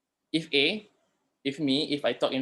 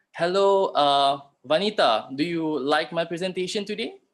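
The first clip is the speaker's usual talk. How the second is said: friendly call-out; 3 semitones higher, 4 dB louder than usual. Shown as a demonstration. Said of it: "Comments ni macam".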